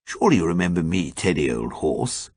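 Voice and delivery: rushed, worried plea, quick on surely; anxious, hurrying to be recognised; anxiously. A narrator's reading. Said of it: "said Ukridge anxiously".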